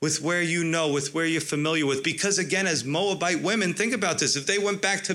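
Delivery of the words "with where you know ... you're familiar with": voicing Naomi. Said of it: "She's saying".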